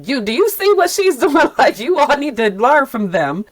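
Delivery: high, laughing insistence; excited urging. Retold or imitated. Peers pushing their funders to learn, laughing and excited. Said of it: "to say".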